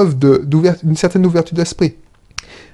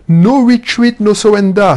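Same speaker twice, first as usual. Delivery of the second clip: put-on motto in thick French-accented English, punched out louder; 5 semitones higher, 4 dB louder than usual. Entrepreneur declaiming his motto to the viewer, louder in heavy French accent. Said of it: "mon accent à couper au couteau".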